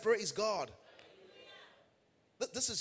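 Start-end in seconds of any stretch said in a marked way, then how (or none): 0.0-0.7 loud, high call to the congregation; insistent rallying shout. Real, not acted. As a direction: shout it out to get a response. Insists congregation answer, third repeat.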